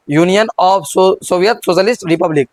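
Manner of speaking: slow, word by word for note taking; slow dictation. Shown as a demonstration. Teacher dictating the full name for students to write, slow. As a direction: dictate it slowly to the class. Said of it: "अब इसको लिख ही लेते हैं".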